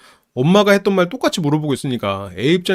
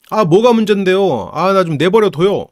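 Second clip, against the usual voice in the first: higher, louder fed-up outburst; angry teen; 4 semitones higher, 4 dB louder than usual. Retold or imitated. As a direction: leave me alone, snapped at dad. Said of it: "하고 화를 내".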